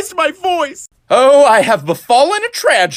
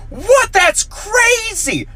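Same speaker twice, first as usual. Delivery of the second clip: surprised; 9 semitones higher, much slower than usual. Retold or imitated. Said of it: "she goes".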